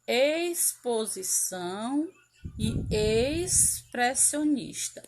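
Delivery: exposição and expressionista said slowly with the ex- sounding like eis. Shown as a demonstration. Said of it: "nós temos aqui o som do X". (pronúncia lenta de exposição com som de S)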